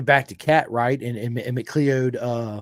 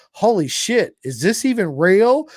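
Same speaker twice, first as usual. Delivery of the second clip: higher and louder, slowed amazement; starstruck disbelief; 8 semitones higher, 8 dB louder, slower than usual. Retold or imitated. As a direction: gasp it out, meeting your hero. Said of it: "this is what I said".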